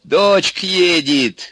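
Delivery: high, drawn-out joyful announcement; delighted cry. A narrator's reading. Baba Yaga sees her daughter coming, delighted. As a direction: cry out the happy news. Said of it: "обрадовалась Баба Яга".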